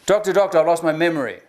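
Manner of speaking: joke telling. Shown as a demonstration. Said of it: "here's some jokes".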